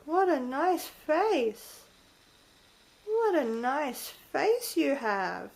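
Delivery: slow admiring coo. Real, not acted. Owner slowly admiring her bird's face, cooing. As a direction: linger over the compliment.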